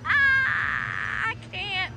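high tearful shriek of disbelief; overwhelmed squeal at a big win; shrieking jackpot winner. Real, not acted.

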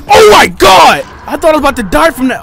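very high loud cry, then fast rush; real shocked scream; relieved shriek. Real, not acted. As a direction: blurt out relief after near death. Narrow escape from enemy.

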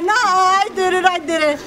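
high-pitched insistence; mock protest. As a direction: imitate someone indignantly sticking to a fib. Retelling his protesting denial.

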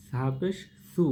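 soft lisped 'সু', tongue tip on upper teeth; soft sa sound. Shown as a demonstration. Teacher shows how sa is recited, a soft dental 'সু'. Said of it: "এটা একটু নরমভাবে বলতে হবে".

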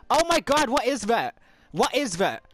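high, loud exasperated yell; frustrated yelling. Real, not acted. Gamer yelling at the game after losing progress. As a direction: rage at the game for undoing hard work.

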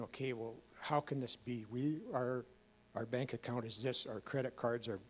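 quiet, emotion rising as he remembers; getting emotional. Real, not acted. Telling his audience about the prayer, quietly moved. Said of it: "I get emotional".

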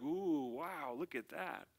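lightly acted impressed onlooker; a touch of hushed, gawking wonder; mock awe. Onlookers gawk at the leaders' spiritual peacocking, mock awe.

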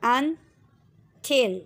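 अनथिल stretched out very slowly; very slow blended word. Shown as a demonstration. Teacher blending syllables, very slow read. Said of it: "और थिल".

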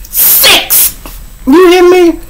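high, breathy "Six!" stressed hard; incredulous emphasis. Real, not acted. Telling the audience the punchline, incredulous high "Six!". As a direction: hit "Six" high in disbelief.

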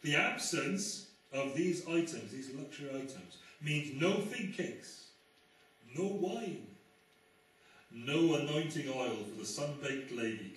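slow, punched-out list of losses; emphatic quotation. Acted. Preacher quotes an American writer to the congregation, slow emphatic reading. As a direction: read the quote slowly, leaning on each item. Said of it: "It doesn't work if I do the accent".

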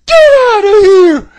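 loud shouted order to leave; referee yelling. Retold or imitated. Referee ordering him out, shouted loud. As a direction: bark it like an angry referee. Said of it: "The referee catches him and says".

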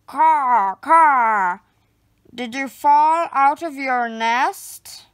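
loud cawing crow voice. A narrator's reading. Crow asks the fallen rabbit, loud cawing bird voice. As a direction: caw like a bird, then ask. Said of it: "a crow asks me".

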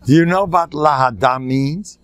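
put-on thick rabbinic Yiddish accent; Rav Hutner. Rabbi asking someone on the phone, heavy Yiddish accent. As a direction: rub in the Yiddish accent, stretching the question. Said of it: "With an accent. He used to da-, rub in the accent".

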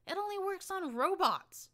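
very high, loud and slow, stressing only; Glory screaming. Acted. Glory screams at the narrator over the useless grenade, very high. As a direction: scream it in disbelief. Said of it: "she screamed at me".

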